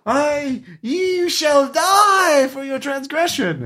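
put-on high, booming curse from an old hermit; laying a curse. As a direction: shriek the curse down at the camper. GM voices cursing arsonist.

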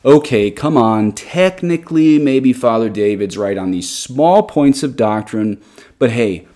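lightly voiced objector, drawing out the words; mock a pleading critic with slow, stretched phrases; imitated dismissive objector. Host summarizing critics' reaction to his blog post, mildly mock objection. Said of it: "second most common reaction I got".

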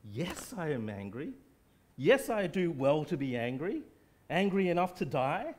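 mock indignant shout building; angry Jonah. Preacher voicing angry Jonah.

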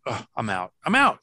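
pulling out in mock disgust; mock disgusted exit. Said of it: "I'm like".

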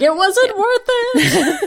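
high, slow, laughing lament; mock breakdown. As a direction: wail it like a hammed-up breakdown. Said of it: "He's having his breakdown".

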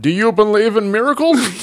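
high, excited sportscaster call; Marv Albert. Acted. Interviewer imitates a famous sports call for the filmmaker, excited announcer. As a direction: belt it like a famous play-by-play man. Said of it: "like, Marv Albert".

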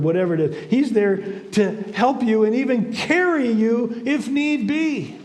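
emphatic, drawn-out preaching delivery; impassioned preaching. Real, not acted. Preacher urging the congregation to trust God, impassioned. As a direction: preach encouragement, leaning on key words.

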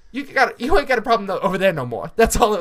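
loud, high tough-guy boast; Bill Burr bit. Retold or imitated. Retelling Bill Burr's gun bit to podcast friends, mock tough boast. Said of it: "It's like Bill Burr with his gun".

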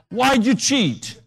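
stern teacher. Retold or imitated. Teacher questioning boy.

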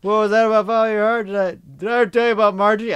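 loud, high frog-puppet voice; Kermit the Frog. Acted. Co-host riffs on Margie, loud Kermit-like impression. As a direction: go big and high, like an excitable puppet. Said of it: "Sounds very much like the Kermit the damn Frog".

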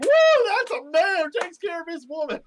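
high, loud mock cheer of swooning women. Mock cheer of women at the next table. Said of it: "threw their hands up and be like".

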